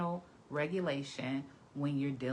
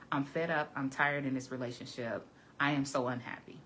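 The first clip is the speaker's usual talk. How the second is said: blunt complaint; 2 semitones lower than usual. Shown as a demonstration. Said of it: "That's one way to say it".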